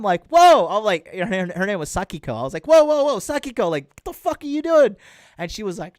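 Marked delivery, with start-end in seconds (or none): 0.3-0.7 sudden high, loud startled cry; startled whoa. Retold or imitated. Startled in bed with his girlfriend, a sudden loud whoa. Startled reaction retold in story. 2.7-5.0 high, loud alarmed yelps; alarmed protest. Retold or imitated. Pushing his girlfriend off in bed, high loud alarmed protest.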